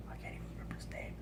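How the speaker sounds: fast whispered aside. Real, not acted. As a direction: rush it in a whisper.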